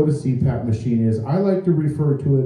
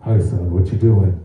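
CPAP mask voice; 7 semitones lower than usual. Shown as a demonstration. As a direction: greet the son from under the mask. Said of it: "you sound like this all the time".

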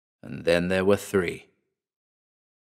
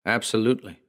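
matter-of-factly; faster than usual. Acted. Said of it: "stated, matter-of-factly".

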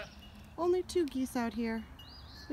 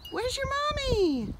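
higher, slow, drawn-out coo; gosling is asked again, slower and cooing; 4 dB louder, slower than usual. Real, not acted. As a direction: stretch it out sweetly for the gosling. Repeats question to gosling.

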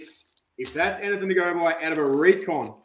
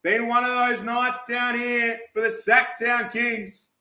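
lively card-break announcer; announcer call; 7 semitones higher, 7 dB louder, slower than usual. Acted. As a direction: call it out to the room, a little raised.

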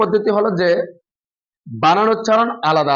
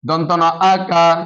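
slow spelling out; slower than usual. Shown as a demonstration. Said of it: "বানান উচ্চারণ একসাথে".

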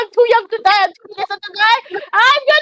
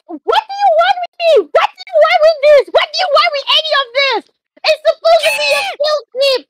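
frustrated outburst. Acted. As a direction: rant at the creatures who ruined the trip. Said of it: "It's like".

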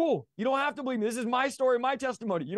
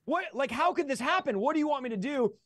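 bewildered questioning; 6 semitones higher than usual. Retold or imitated. Acted back-and-forth with God.

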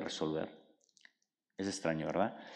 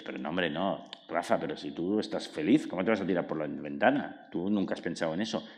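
lower, softer self-reassurance; calming himself down; 4 semitones lower, 4 dB quieter than usual. Retold or imitated. Rafa reassuring himself against the intrusive thought, lower and softer. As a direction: talk yourself down gently, like soothing a friend. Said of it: "Y entonces dices".

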